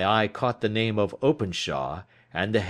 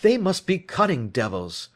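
higher, louder angry exclamation; exclaimed; 7 semitones higher, 4 dB louder than usual. A narrator's reading. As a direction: burst out against the gang. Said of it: "he exclaimed at last".

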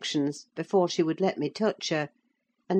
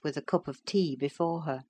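usual speaking voice

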